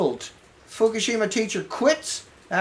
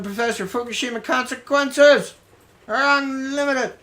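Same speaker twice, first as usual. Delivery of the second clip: mock-solemn quote. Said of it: "I gotta do that one more time".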